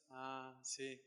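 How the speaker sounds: soft, barely voiced agreement; sheepish. Preacher admits God is right, very softly. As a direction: give in quietly.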